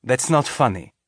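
a hint of a firm teacher; lightly stern, shutting it down. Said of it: "using the full weight of her teacher voice".

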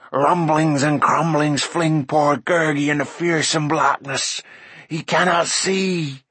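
whimpering creature voice; moaning. A narrator's reading. Creature lost in fearsome blackness, moaning. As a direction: moan along in self-pity, stretching the last words. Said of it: "moaned Gurgi".

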